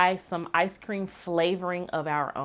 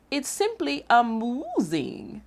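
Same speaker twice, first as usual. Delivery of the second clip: higher, gleeful cow cheering her choice; 8 semitones higher, slower than usual. Acted. Cow cheering her daisy ice cream, gleeful and higher. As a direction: cheer it with delight. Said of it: "she gleefully cheered".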